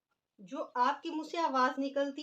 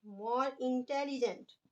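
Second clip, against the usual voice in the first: very slow, each word drawn out for writing; slow dictation; much slower than usual. Shown as a demonstration. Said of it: "अब हम देखें इनकी second degree बनाते हैं". (बहुत धीरे-धीरे लिखवाते हुए)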